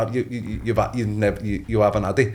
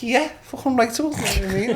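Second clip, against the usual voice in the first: excited retelling; 11 semitones higher than usual. Retold or imitated. Excited reaction retold, laughing.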